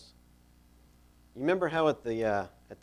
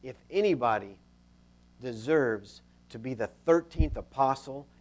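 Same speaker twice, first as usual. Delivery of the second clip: aggrieved, self-important protest; resentful griping with emphatic bursts; mild acted anger; 3 dB louder than usual. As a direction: insist you are the one who deserves it. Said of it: "you can see the anger".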